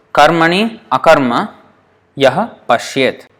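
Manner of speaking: "karmani akarma yah pashyet" with each word kept apart; separate words. Shown as a demonstration. Teacher reading the verse unjoined, word by word. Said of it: "in this verse".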